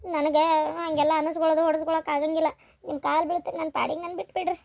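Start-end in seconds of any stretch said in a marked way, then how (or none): 2.9-4.6 pleading. Acted. Wife begs man to leave her.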